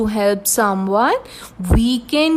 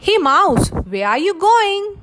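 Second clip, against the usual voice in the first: lion calling; 6 semitones higher, much faster than usual. Acted. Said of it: "Lion said".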